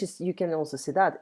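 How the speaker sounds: usual speaking voice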